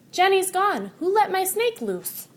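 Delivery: high, loud panicked cry; girl shouting in high alarm. Acted. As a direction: call out for the lost snake, high and loud. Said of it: "Emily shouts".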